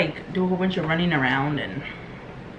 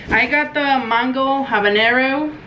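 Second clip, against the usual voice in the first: slow drawn-out; 4 semitones higher, slower than usual. Shown as a demonstration. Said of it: "This sounds stupid".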